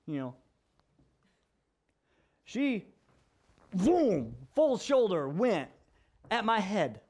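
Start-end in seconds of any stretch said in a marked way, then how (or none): 3.7-4.4 imitated throw.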